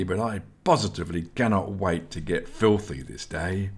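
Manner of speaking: plain reading voice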